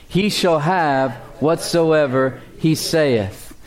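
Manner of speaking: slow, measured Bible recitation; scripture reading. Acted. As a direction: read the verse out slowly for a congregation to join in. Reads scripture with congregation.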